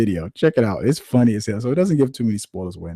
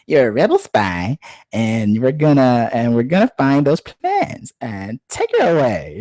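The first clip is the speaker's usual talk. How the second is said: slow, menacing mock Vader voice; hammed-up Vader, slow and menacing; Darth Vader; 3 semitones higher, 4 dB louder, slower than usual. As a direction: loom over the rebel like the dark lord. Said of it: "the guy who played the original voice of Darth Vader".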